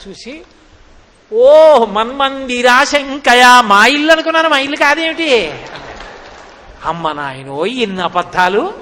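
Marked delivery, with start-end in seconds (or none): 1.3-5.5 mock innocent child. Krishna's innocent excuse to gopi. 6.8-7.7 lower, stunned 'అమ్మ నాయనో'; amazed exclamation. Acted. Gopi stunned by lies.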